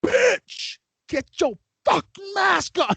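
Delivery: very high mock outburst; hood side. Manager's inner voice at maskless customer, high mock outburst. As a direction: let the composure snap in a hammed-up squeal. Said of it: "part of my hood side was like".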